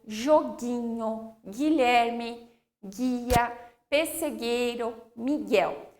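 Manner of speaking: slow word list, hard G in seguida, foguete, guerra; careful dictation, U unheard in guerra and guia; silent U after G. Shown as a demonstration. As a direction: read each word with GUE and GUI as "ghe" and "ghi". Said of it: "como que fica".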